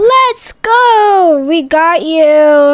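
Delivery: loud triumphant whoop; gloating cheer. Acted. Prankster friend celebrates blowing up the house, gloating. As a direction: crow loudly over a successful prank.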